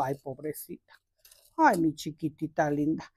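soft, low cooing to a little plant; tender pity. Real, not acted. Gardener comforting her plant while loosening its roots, tender pity. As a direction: murmur it low and gently, as if soothing something hurt.

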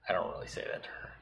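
whispered aside; quick hushed whisper. Real, not acted. Aside taking back the insult.

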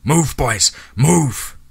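high, urgent yell. A narrator's reading. Hank urges the boys up the ridge, yelling. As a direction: drive them on, pitch climbing. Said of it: "We heard Hank yelling".

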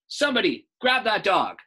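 high, loud panicked scream; manager screams. Acted. Manager screaming to staff, high loud scream. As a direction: shriek for help across the store. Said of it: "The manager screamed".

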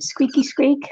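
squeaky little mouse sound. Pretend. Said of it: "Sounds like a mouse".

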